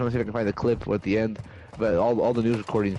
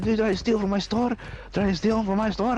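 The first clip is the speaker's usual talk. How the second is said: high, mock Indian accent, repeated question; Indian store owner; 11 semitones higher than usual. Indian store owner questioning the thief, mock Indian accent.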